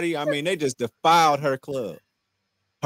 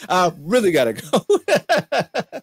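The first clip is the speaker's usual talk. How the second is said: slow, high, drawn-out "I really gotta go"; hammed-up excuse; 4 semitones higher, 5 dB louder, much slower than usual. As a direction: stretch the "go" out as a mock whine. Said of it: "laughs, repeats in put-on voice".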